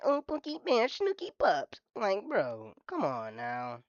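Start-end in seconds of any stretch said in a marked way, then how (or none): 0.0-1.8 a touch higher cooing pet names; lightly cooed baby voice; light baby talk. Retold or imitated. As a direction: tease them with cutesy baby words. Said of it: "they're like".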